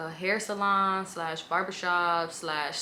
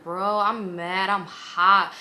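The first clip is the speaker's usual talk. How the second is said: slow, louder, heated; angry; 7 dB louder, much slower than usual. Retold or imitated. Woman tells the lying man she is furious, slow loud heat. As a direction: lay it out slowly, fuming. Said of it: "So I was just like".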